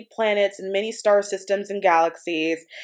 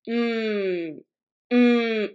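tuning hum. Shown as a demonstration. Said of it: "I started to do this".

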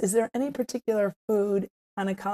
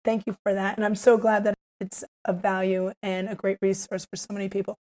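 strained hoarse voice. Real, not acted. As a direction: talk through a tired hoarse throat. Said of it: "I have no voice".

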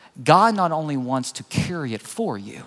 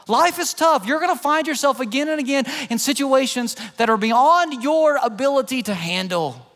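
voicing God; 7 semitones higher than usual. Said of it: "And God looks at us and says".

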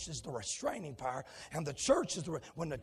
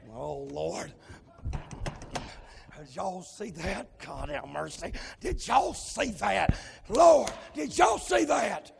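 calm turning excited; 4 dB louder, slower than usual. Acted. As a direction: start hushed, build to a loud cry. Preacher works up to shout.

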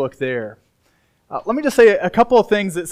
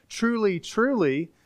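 "Truly, truly" with the first word lifted higher; emphatic; 3 semitones higher, slower than usual. Retold or imitated. Preacher quoting Jesus's opening words, "Truly, truly" said emphatically. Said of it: "he not only emphatically says".

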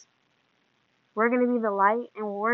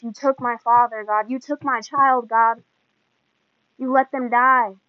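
acted-out grieving protest, building louder; louder, hurt plea to God; anguished accusation; 6 dB louder than usual. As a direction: cry out to God in mock reproach.

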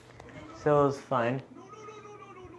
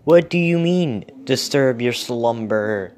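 shouting to be heard; yelling; 7 dB louder than usual. Acted. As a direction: yell it across a distance. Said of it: "so he yelled louder".

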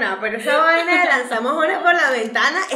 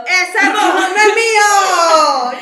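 louder, slow mock protest; mock yell; 3 semitones higher, 5 dB louder, slower than usual. Friend imagines her yelling her innocence from the bathroom. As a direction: yell it out, denying it. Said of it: "Tú sales gritando".

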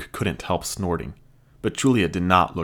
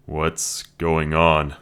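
put-on confused young man; 3 semitones lower, 3 dB louder, much slower than usual. Luke confused.

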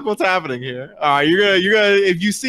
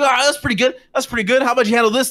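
pitched-up, acted bravado; cocky comeback; 7 semitones higher, faster than usual. Game master as a bleeding fighter daring the player, cocky. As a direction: shrug off the hit and challenge back. Rocked foe answers back at player.

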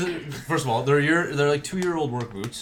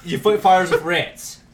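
slow, talking through a mouthful of water; water held in mouth; 3 dB louder, slower than usual. Real, not acted. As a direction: speak with water still in your mouth. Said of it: "Don't speak when you still have water in your mouth".

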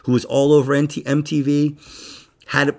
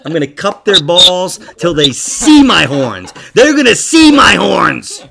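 emphatic, hammed-up threat; mock threat; 3 semitones higher, 6 dB louder than usual. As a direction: threaten them in comic outrage.

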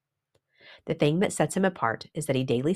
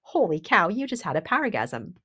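excited; 4 semitones higher than usual. Acted. Excited exclamation to listeners.

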